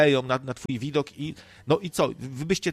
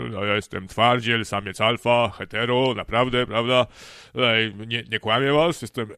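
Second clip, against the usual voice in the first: lowered, forced tough-guy voice; faked macho voice; 3 semitones lower, 4 dB louder than usual. Closeted man pretending to be a straight alpha, faked deep voice. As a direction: push your voice down like a self-declared alpha male. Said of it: "i tam zmieniać głos".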